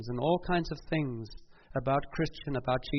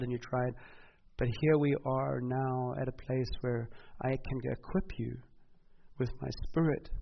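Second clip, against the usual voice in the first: Jesus comforting Peter. Retold or imitated. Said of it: "And he said".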